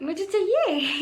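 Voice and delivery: imitating the coordinator insisting on a blood report; mimicking stubborn teacher. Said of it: "कह रही".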